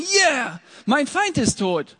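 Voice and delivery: high, loud, gloating cheer; mock triumph. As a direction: crow over the fallen enemy. Imagined David cheering enemy's death.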